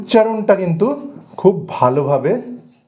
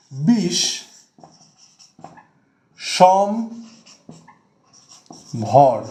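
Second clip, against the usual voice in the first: "বিষ সম ভর" with a long pause after each; three separate syllables; much slower than usual. Shown as a demonstration. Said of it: "তিনবার আমাকে কিন্তু থামতে হলো". ("বিষ সম ভর" তিনবার থেমে আলাদা করে)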